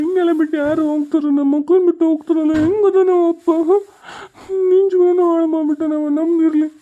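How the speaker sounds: hurt, crying lament; weepy, aggrieved plea; tearful protest. Acted. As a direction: protest through tears. Child weeping over father leaving.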